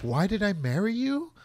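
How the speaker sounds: the fed-up wife sighing at him; high mock housewife voice; mock Martha Kent. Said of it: "Martha Kent's just like".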